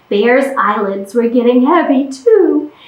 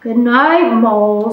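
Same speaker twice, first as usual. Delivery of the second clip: sighing goodnight; 4 semitones lower than usual. Acted. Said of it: "with a sigh".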